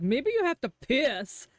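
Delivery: a lighter punch on "piss"; stress on piss. Retold or imitated. Streamer repeating Marston's line, stressing "piss". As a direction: hit "piss" again, milder. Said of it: "He was like".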